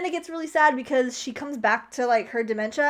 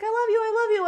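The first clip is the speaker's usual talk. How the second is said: high-pitched mock lovey-dovey; imitated loving reply; 10 semitones higher, faster than usual. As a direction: gush it back as the old lady, retold. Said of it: "And she's like".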